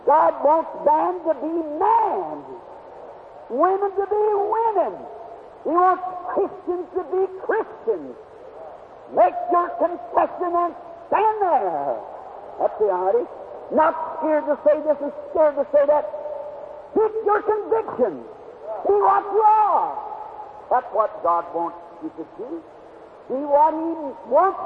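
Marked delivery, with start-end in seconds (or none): 0.1-12.0 exhorting preacher. Real, not acted. Preacher urging Christians to stand firm, exhorting. 16.9-19.9 raised pitch on each short command; ringing, high-pitched exhortation; exhorting preacher. Real, not acted. Preacher telling believers to keep conviction, exhorting.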